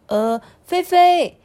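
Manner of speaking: high, loud, drawn-out call; worried teacher. Acted. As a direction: call out to the pupil in concern. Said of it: "连忙的问她说". (老师着急地呼唤)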